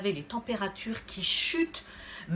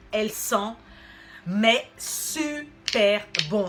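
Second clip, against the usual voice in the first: gushing; 5 dB louder, slower than usual. Real, not acted. Raving about the scent.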